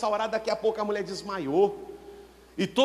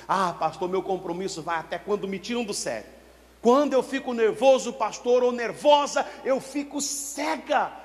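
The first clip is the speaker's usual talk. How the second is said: mock believer's excuse; 3 semitones higher than usual. Church member's excuse, quoted.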